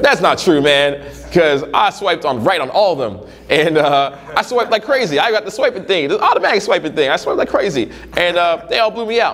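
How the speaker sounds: high, whiny protest of a guy who swiped on everyone; whiny student imitation. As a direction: play the indignant guy who swears he did everything right.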